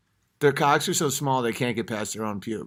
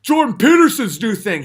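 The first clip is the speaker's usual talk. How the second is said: high mock fanboy gushing; 12 semitones higher, 9 dB louder than usual. Comic mimicking a gushing fan. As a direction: ham up an eager follower. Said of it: "People are like".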